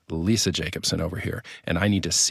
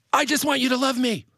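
high-pitched mock-wife plea; imitating upset wife. Husband retelling his angry wife's outburst, high mock plea. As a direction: plead it in a much higher, put-on voice.

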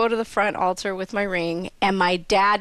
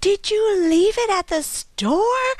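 high, drawn-out incredulous question; mock shock; 12 semitones higher, slower than usual. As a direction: imitate a mom's disbelief, stretched out high. Mom's shocked reaction, retold.

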